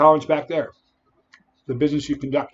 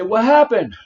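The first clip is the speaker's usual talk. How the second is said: shouting; 9 semitones higher, 11 dB louder, slower than usual. Pretend. Imagined doctor asking at hospital.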